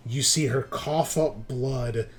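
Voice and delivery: paced action narration with pauses; game master's narration. Pretend. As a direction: narrate the blow in slow, punched phrases.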